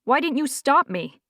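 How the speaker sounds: high, accusing demand; a sharp, hurt accusation. A narrator's reading. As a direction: throw the blame at her. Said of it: "said Wesley accusingly".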